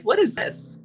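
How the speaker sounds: confused disbelief at the cash; incredulous. Retold or imitated. Woman handed cash by a driver, baffled and incredulous.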